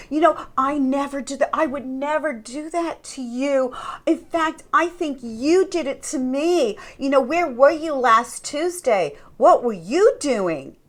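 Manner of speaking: mock defensive denial turning into accusation; blame shifting. Narcissist suspected of cheating, mock defensive and accusing. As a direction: deny it, then turn it round on them. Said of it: "they'll blame shift".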